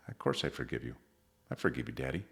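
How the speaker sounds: soft, low, lightly voiced little boy; sincere child forgiving. Little boy forgiving his daddy, tender and sincere. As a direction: forgive gently, almost under your breath. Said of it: "look at you with the most sincerity".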